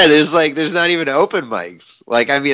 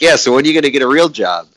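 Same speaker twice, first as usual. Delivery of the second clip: fast nagging dad voice; mock nagging dad; 3 semitones higher, 4 dB louder, faster than usual. Imitating dad nagging about a job, fast and mock. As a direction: rattle it off like a nagging father. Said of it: "he was like".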